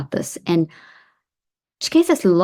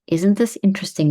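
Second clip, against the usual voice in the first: calm, steady demo; calm inner phrase. Shown as a demonstration. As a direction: say it evenly in your head. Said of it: "Notice how my face has taken on a neutral stance".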